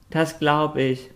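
a lightly voiced little dog; barked. A narrator's reading. The dog agrees, lightly barked. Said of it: "bellte Noti".

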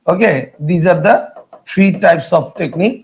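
very slow, word by word. Shown as a demonstration. Teacher summing up for students, very slowly. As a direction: draw each word out for the class. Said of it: "slow English summary".

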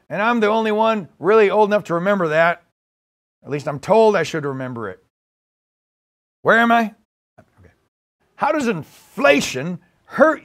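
rough comic presidential impression; lightly voiced muddled president making a speech; Joe Biden. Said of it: "playing the part of Joe Biden".

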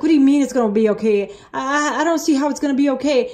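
quick, doubting protest; flustered disbelief, retold; panicked, frustrated. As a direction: argue back in mild exasperation. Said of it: "I was just panicking, frustrated".

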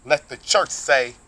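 slow, solemn blessing with a long drawn-out amen; benediction. Acted. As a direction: bless the congregation, stretching the last amen.

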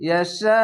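"ইয়াশা" with a long held শা; recited "ইয়াশা", final syllable greatly drawn out; stop on sukun. Shown as a demonstration. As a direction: stretch শা at length, then stop. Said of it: "বলে থেমে যাবেন".

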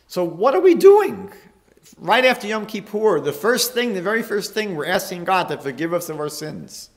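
high, loud, incredulous protest; impassioned exasperation. Real, not acted. Rabbi challenging his congregation over needless confession, impassioned exasperation. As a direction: raise the voice in astonished challenge.

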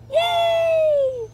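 very high, gleeful cheer; yay. Acted. Norman happily joining the snails, cheering. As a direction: cheer with pure delight.

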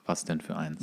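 unvoiced whisper, exasperated; whispered aside. Real, not acted. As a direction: mutter it under your breath to the listener. Bartender's aside after customer quote.

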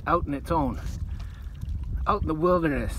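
Aussie croc hunter host voice; nature documentary. Pretend. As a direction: narrate like an excited wildlife presenter. Steve Irwin style wildlife host bit.

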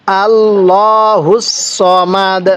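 আল্লাহুস সমাদ drawn out slowly; slow recitation. Shown as a demonstration. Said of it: "আমার সাথে সাথে পড়বেন".

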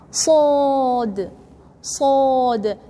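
"Sod." with a heavy, full mouth; emphatic sod. Shown as a demonstration. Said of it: "this one is strong".

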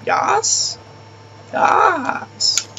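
high squealed yas; excited. Real, not acted. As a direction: squeal with delight at the luck. Gets good gun in game.

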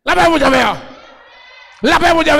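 shouted, rhythmic list-like sermon; full-force preaching. Real, not acted. Preacher counting off gangs to the congregation, full-force preaching. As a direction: pound out each phrase to the crowd.

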